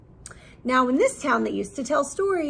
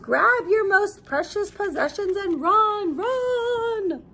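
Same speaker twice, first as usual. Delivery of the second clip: frantic yell; 9 semitones higher, slower than usual. Acted. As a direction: yell at everyone to flee. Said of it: "Men yelled".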